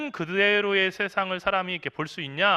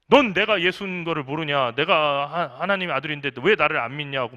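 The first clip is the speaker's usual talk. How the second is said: indignant, a little louder; mock angry patient; 2 semitones lower, 4 dB louder than usual. Patient angrily demands the student believe he is Jesus, mildly raised voice. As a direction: scold the listener for not believing. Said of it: "막 화내요".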